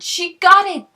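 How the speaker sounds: very loud, high triumphant shout; whooping cheer. Acted. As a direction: crow with delight. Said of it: "let out a whoop".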